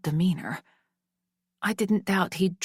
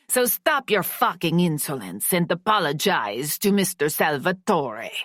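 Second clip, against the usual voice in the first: cold domineering father. Acted. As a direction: lay down the law to your daughter. Father asserts control.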